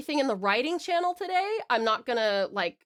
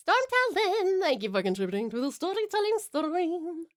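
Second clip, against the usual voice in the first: high, sing-song thanks; cheery shout-out; 7 semitones higher than usual. Real, not acted. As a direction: call out the thanks in a high lilt. Calls out thanks to a contributor.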